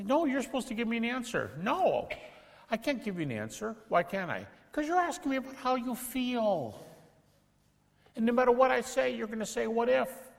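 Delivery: high animated role play; mock back-and-forth. Shown as a demonstration. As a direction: act out both sides. Acted dialogue with doubter.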